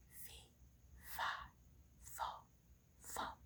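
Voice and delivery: faint, far-off giant chant; barely there, as if from far away; a faraway fee fi fo fum; distant giant. Acted. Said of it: "And it got louder".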